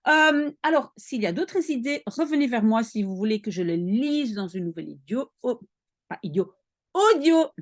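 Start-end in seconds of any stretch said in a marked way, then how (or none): 2.0-7.5 talking around a dental retainer; words slurred by a retainer; wearing a retainer. Real, not acted. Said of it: "j'ai articulé avec mon appareil". (avec un appareil dentaire)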